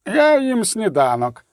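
object, mouth on breakfast; protesting. Acted. Professor refusing to leave breakfast, protesting. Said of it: "запротестував Вуглесмородор".

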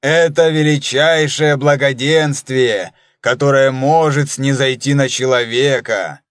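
lofty priestly proclamation; solemn voice. Acted. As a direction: preach it grandly, slowed down. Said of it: "торжественным голосом начал".

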